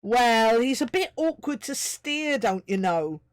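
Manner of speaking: a hint of a smug Irish sprite; lightly voiced Seamus. A narrator's reading. Seamus tells Miles the troll is awkward: smug. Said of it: "replied Seamus".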